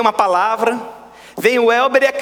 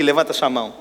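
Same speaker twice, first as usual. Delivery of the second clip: lower, chuckling "raise your hand"; laughing call; 7 semitones lower than usual. Real, not acted. Pastor teasing the congregation, laughing. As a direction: tease the crowd through a laugh.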